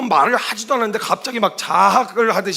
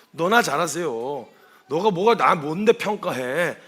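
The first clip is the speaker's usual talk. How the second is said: slow, understated indignant retort; mock resentful retort; 4 semitones lower, slower than usual. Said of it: "그런 발끈하는 마음이 찾아 들어온다고요".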